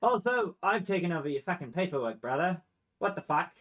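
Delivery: high, loud, fast rant; indignant complaint. Acted. Brother confronting brother over taking his paperwork, indignant rant.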